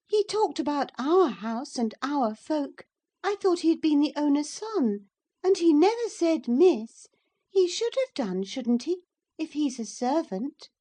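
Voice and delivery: put-on high, loud girlish complaint; a pert child tattling to her nurse; spoilt young girl. A narrator's reading. Cathy appeals to Ellen about the lad, high and peevish. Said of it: "Cathy appeals to Ellen".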